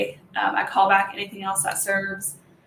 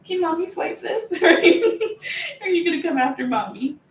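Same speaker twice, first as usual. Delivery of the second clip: high, laughing teasing voice; 7 semitones higher than usual. Real, not acted. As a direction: tease the dog to chase you. Teasing the playful dog.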